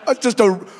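high, loud exasperated burst; mock disbelief, high and loud; incredulous outburst. Speaker's incredulous reaction.

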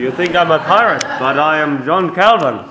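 put-on lightly French-accented Calvin, quick at first; a hint of a Frenchman defending his beard. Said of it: "you sound like you're French".

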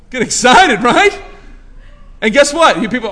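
loud, high, ringing sermon delivery; fired-up preacher, rising and pounding the point; preaching at full force. Real, not acted. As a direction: preach it out to the whole room. Preacher rallies congregation.

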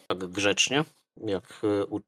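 usual speaking voice

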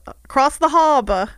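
Boston accent, "harbor" without r. Real, not acted. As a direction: drop the r like a Bostonian. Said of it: "you've nailed it".

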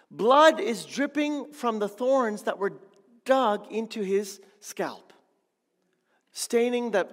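loud, building up with vivid horror; intense preaching. Real, not acted. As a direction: paint the suffering, voice rising. Vivid crucifixion description, rising intensity.

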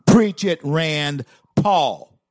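high, loud preach-it shout; big rallying cry of approval; shouted cheer. Real, not acted. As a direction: yell it out like a fired-up fan. Cheering on a speech clip.

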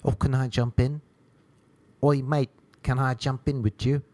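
put-on English accent, mate. English guy at the gym asking to jump in, English accent. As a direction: imitate an English bloke asking. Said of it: "English guy was like".

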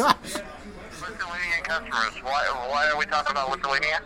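caller on speakerphone; tinny voice over phone speaker. Real, not acted. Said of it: "I'll put you on speaker".

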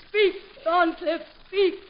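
hammed-up betrayed heroine; melodramatic outrage. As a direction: build from tender to wounded cry. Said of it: "run the gamut of emotion".

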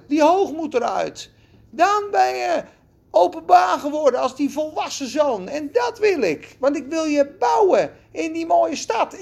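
impassioned sermon voice; preaching at full force. Acted. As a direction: proclaim it with rising fire. God's words preached at full force.

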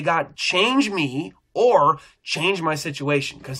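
slow, steady, handed-over words; calm surrendered prayer. Retold or imitated. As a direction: say it like you are letting go. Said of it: "and I can say".

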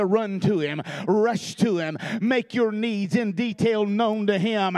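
rising pulpit preaching cadence; fervent sermon delivery. Acted. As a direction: preach it out to the congregation. Preaching at full force.

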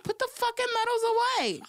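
high, laughing put-down; mock irritation. Passed by finishers with medals, high and laughing. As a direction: snap at the medal wearers, half laughing. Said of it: "I was so pissed off".

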